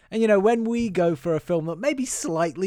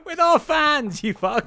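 emphatic correction; 11 semitones higher, 5 dB louder, slower than usual. Real, not acted. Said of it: "repeats correction".

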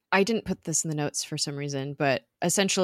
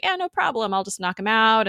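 mock cocky Ward; 6 semitones higher than usual. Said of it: "and he's like".

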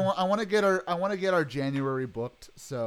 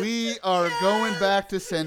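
announcement; 3 semitones higher, slower than usual. Real, not acted. Announcing the wheel result.

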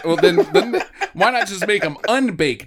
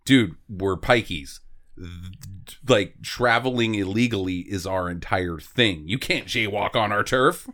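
gruff pikey; 10 semitones lower, 3 dB quieter, slower than usual. Retold or imitated. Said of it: "They'd be like".

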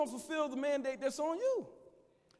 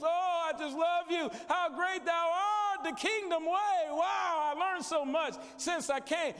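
hammed-up gushing, louder and slow; mock fake churchgoer; 4 semitones higher, 3 dB louder, slower than usual. Preacher mocking phony churchgoers who gush after service, mock gushing. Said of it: "all the phoniness, all the fakeness".

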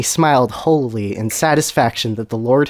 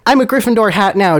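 high, zealous mock yell; bold yell; 9 semitones higher, 4 dB louder than usual. Draco announces his new faith, in a bold mock yell. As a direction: proclaim it high with a convert's zeal. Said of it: "Draco yelled boldly".

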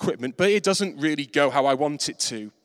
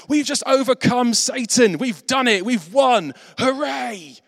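higher, louder triumphant cheer; joyful celebration; 7 semitones higher, 4 dB louder than usual. Retold or imitated. Jesus rejoicing with the Father over Satan's defeat, exultant. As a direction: celebrate the victory out loud. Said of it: "rejoicing with God the Father".

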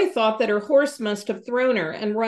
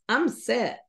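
smiling voice. Acted. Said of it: "with a smile in her voice".

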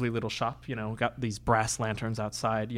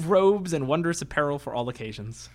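squat little tailor voice; 3 semitones higher than usual. Acted. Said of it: "speaks in a voice like this".

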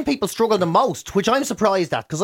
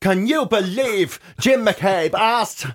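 mock scandalised gossip; much slower than usual.

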